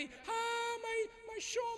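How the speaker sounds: high, slow, faked wailing over the loss; hammed-up mourning wail; fake crying. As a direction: cousin faking tears at a funeral. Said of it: "दूर जाके करती".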